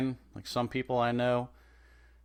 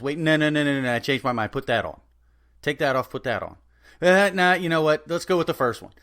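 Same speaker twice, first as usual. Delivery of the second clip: louder, higher flip-flopping customer; indecisive customer; 4 semitones higher, 5 dB louder than usual. Retold or imitated. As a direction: waffle loudly between choices. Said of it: "Indecisive as hell".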